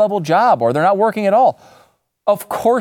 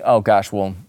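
lightly voiced borrower; 10 semitones lower, 4 dB quieter, faster than usual. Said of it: "would say".

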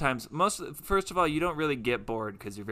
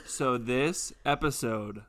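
spooky announcer; slower than usual. Pretend.

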